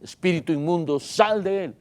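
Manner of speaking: retold order, rising in pitch on the last words; authoritative command. Preacher voicing Jesus expelling demons, authoritative. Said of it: "tenía toda autoridad para decirle".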